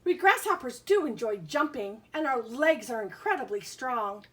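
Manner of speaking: lilting picture-book read-aloud; reading to children. Acted. Teacher reads a bug book to her class, sing-song. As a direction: read the rhyming book to the kids.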